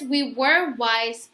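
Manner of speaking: very slow, heavy WE WERE WISE; mother admitting the move was hard, slowly; sad, slow. Shown as a demonstration. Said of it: "So Mama says".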